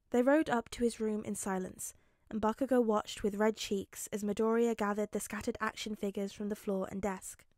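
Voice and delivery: measured audiobook narration; story narration. A narrator's reading. Narrator telling how Bakugo backs off, measured. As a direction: read the action evenly to the listener.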